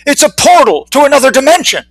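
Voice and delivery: high, excited announcing to a crowd; fervent proclamation. A narrator's reading. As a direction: proclaim it to all who will listen. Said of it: "he proclaimed to all who would listen".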